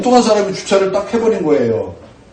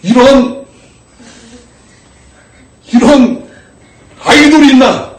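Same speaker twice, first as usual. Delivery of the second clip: much higher and louder, half-laughing exclamation; blurted outburst; 7 semitones higher, 7 dB louder, slower than usual. Retold or imitated. Pastor reliving what slipped out, laughing exclamation. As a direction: blurt it out before you can stop.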